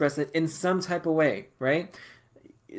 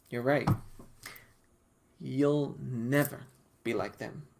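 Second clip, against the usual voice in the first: lightly voiced Spirit; 2 semitones lower, 6 dB quieter than usual. Voices Spirit's blunt verdict.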